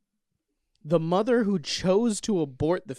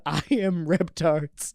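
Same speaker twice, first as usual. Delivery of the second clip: slow, lightly voiced monster; mock-grand creature announcement; dinosaur; 3 dB louder, slower than usual. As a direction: proclaim it slowly like a dinosaur. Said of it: "a giant flame-breathing dinosaur that says".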